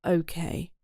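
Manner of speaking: whispered okay; shaky. Acted. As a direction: barely breathe the word. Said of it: "answered in a shaky voice".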